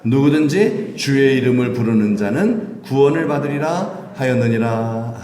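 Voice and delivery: slow scripture reading. Acted. Congregation reads scripture aloud.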